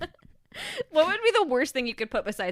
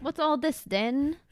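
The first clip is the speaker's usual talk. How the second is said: slow, hammy fake Cockney accent; drawn-out mock Cockney accent; bad Cockney accent; 4 semitones higher, slower than usual. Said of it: "our really bad Cockney accents".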